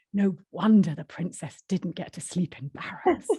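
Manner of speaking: slow, lightly voiced Yorkshire verdict; Yorkshire accent. Barbara drawing her conclusion, slow Yorkshire accent. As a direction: round it off slowly in mild Yorkshire. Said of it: "Barbara's conclusion is".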